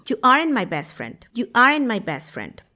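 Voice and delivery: "aren't" said as "aren", no final T; silent T. Shown as a demonstration. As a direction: run "aren't" into "my" without its T. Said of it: "esa T que está después del apóstrofo no se pronuncia".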